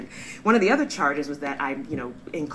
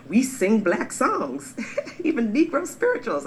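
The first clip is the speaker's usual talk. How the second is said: higher, louder, breaking into a laugh; amused, laughing; 9 semitones higher, 5 dB louder than usual. Real, not acted. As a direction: laugh through the absurdity of having to prove it. Laughs while listing proof of blackness.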